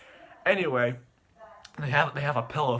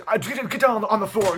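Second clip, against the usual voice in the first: high, loud mock command; faked shouting; 8 semitones higher, 8 dB louder than usual. Boy faking a crime down the phone, high loud shouting. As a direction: bellow a staged order, pitched up. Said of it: "he fakes".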